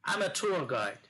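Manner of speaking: slow, careful English model line; slow classroom demonstration; slow model sentence. Shown as a demonstration. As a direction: lay out each word slowly like a teacher. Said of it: "ট্যুর কখনোই বলবে না".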